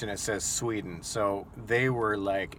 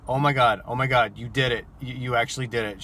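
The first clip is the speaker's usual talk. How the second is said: astonished; 2 semitones higher, 4 dB louder than usual. Retold or imitated. Driver reacts to being flashed.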